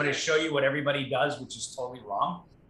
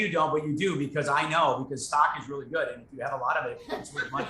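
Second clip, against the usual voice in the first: condescending salesman. Shown as a demonstration. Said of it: "totally wrong".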